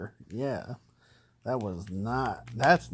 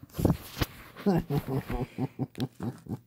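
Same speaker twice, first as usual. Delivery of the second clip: nervous laugh. Real, not acted. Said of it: "That's a nervous laugh, by the way".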